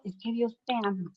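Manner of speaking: soft, unforced retold child; imitating child's naturalness. Son telling the barber God loves him, imitated easy naturalness. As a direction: drop it softly, as the most natural thing. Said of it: "con la mayor naturalidad del mundo".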